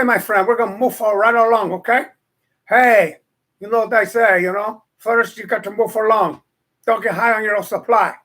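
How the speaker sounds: lightly voiced gangster advising a friend; put-on tough guy. Host as a mock gangster telling a friend the rules. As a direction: growl the street motto like a mob boss. Put-on character delivering a motto.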